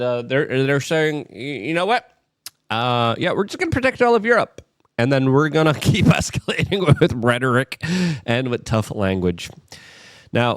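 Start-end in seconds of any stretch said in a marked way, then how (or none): 1.3-9.5 mocking bravado. Mocking French leaders' bravado.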